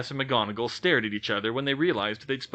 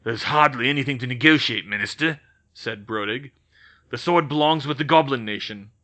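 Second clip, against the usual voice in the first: louder, gruff goblin retort; a lightly voiced goblin, bristling; goblin shooting back; 2 semitones higher, 7 dB louder than usual. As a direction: snap it back like an angry goblin. Brodig dismisses negotiation.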